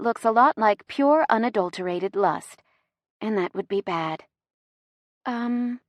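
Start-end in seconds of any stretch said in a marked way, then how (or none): 5.2-5.8 soft, hesitant breath of a word. A narrator's reading. Woman locking eyes with him, breathed softly. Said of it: "I breathe".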